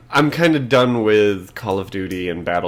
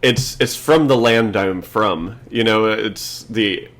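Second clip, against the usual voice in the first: passionate. Real, not acted. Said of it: "I am legitimately excited".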